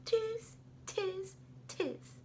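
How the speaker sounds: high, squeaky monkey tiz; monkey chatter. Acted. Monkeys mock the peddler with high chatter. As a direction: chatter back like a cheeky monkey.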